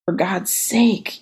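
slow pained groan. Acted. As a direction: groan it out through cramps. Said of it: "you groaned".

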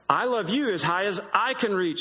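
lightly voiced big hare topping the little one. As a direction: answer like a calm, bigger father hare.

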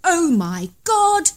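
high, loud, slow cry of fear; terrified cry. A narrator's reading. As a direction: gasp it out in terror at the monster. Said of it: "I could see him say".

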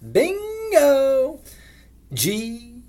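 high, loud bingo call. Acted. Bingo host calling out.

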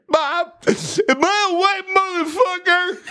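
put-on high, laughing little kid asking his mom. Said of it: "And I was like".

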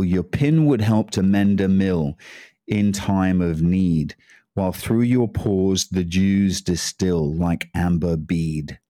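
deliberate Burns translation reading; poem recital. Acted. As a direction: read it like a solemn recitation. Reads Burns poem in English.

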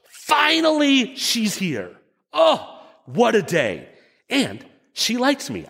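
high, slow dreamy excitement; passionate teenage crush. Shown as a demonstration. Preacher voices Adam as a smitten fifteen-year-old. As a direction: sigh it out like a smitten teen. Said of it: "The fifteen-year-old passionate crush".

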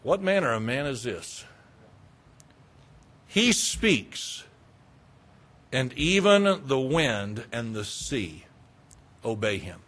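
hushed awe among themselves; saying to themselves. Acted. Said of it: "saying to themselves, to one another".

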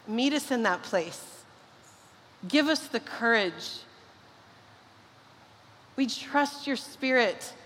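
earnest, hushed prayer voice; a pastor praying over the congregation, hushed and earnest; closing prayer. Acted.

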